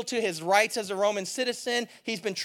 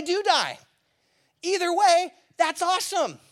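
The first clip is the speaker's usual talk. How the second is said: carefree Paul; 5 semitones higher than usual. Retold or imitated. Paul voiced as carefree, upbeat.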